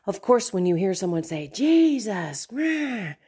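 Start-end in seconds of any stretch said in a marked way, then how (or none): 1.5-3.1 snapped out like a swear word; irreverent curse tone. Retold or imitated. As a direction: spit the name out as an angry curse. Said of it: "In that tone, in that way".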